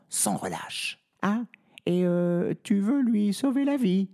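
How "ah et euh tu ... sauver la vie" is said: grumbling. Acted. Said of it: "rouspète l'âne".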